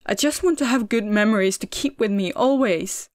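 loud, tearful outburst; exploding outburst. A narrator's reading. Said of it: "exploded all that he'd been pushing down".

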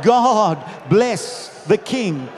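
drawn-out cry to God; crowd's shout. Retold or imitated. Crowd blesses the arriving King, calling out. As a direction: proclaim it like a crowd. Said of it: "And they would shout".

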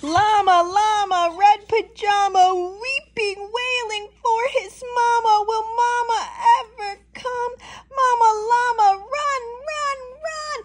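building panic. A narrator's reading. Baby llama wails, mama must run, rising panic. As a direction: narrate with mounting wailing urgency. Story climax, frantic wailing read aloud.

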